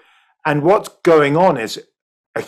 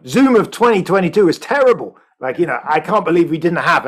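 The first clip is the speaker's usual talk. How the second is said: higher-pitched mock disbelief; imagined dismay; 5 semitones higher than usual. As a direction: look back aghast, pitch lifted. Imagined future self looking back in dismay.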